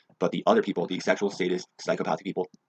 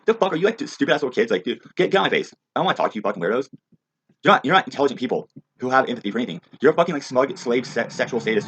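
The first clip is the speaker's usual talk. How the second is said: loud, higher furious yelling; angry rant; 6 semitones higher, 6 dB louder than usual. Real, not acted. Ranter yells at the kids, loud and furious. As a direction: shout them down with contempt.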